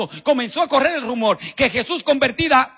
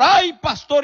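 loud whiny "Ay, pastor" pitched up; pleading churchgoer; 4 semitones higher, 4 dB louder, slower than usual. Retold or imitated. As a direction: call out "Ay, pastor" like a begging member. (feligrés suplicante, "Ay, pastor" alto y fuerte)

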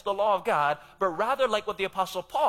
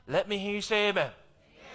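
ordinary talk, nothing marked

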